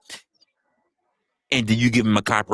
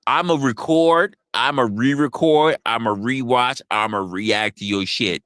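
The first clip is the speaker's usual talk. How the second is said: drawn-out, deliberate list; mock reactor quote; slower than usual. Streamer mimicking reactors asking to use content, slow mocking quote. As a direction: spell out each claim slowly. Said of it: "come to you and say".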